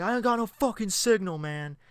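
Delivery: high, put-on rough voice of the driver; imitating the driver. Stranded driver complaining about no signal, imitated.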